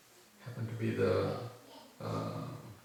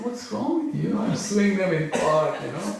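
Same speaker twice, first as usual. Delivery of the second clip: higher-pitched, incredulous retort; retold indignant protest; indignant refusal; 6 semitones higher than usual. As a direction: scoff at the very idea, voice rising.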